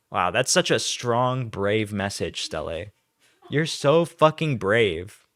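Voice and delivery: slow, mock-earnest admiration; sarcastic praise. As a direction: lay on the fake sincerity, slowly. Mocking praise of accuser's tweet.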